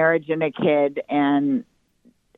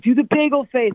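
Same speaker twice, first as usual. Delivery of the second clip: put-on high-pitched eager child demand; imitated kindergarten kid; 9 semitones higher, 4 dB louder than usual. Kindergartner egging on a classmate to perform, high kid voice. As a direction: call it out like a little kid, pitched up. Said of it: "some kid being like".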